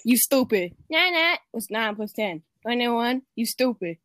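pinched voice meme imitation; twenty-one kid impression. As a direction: do the 'you stupid' meme kid, nasal and cocky. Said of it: "my twenty-one kid impression".

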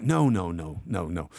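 put-on low Russian-accented refusal. Comedian voicing the Russian gangster refusing, Russian accent. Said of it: "you did a spot on Russian accent".

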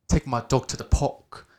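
mock British rapper accent; playful British rap parody. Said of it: "this is a British rapper".

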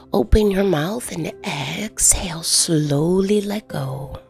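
usual speaking voice

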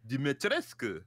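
light vampire accent on "Dimitrescu". Shown as a demonstration. Cohost trying out the villain's name, light vampire accent. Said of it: "like, vampire accent".

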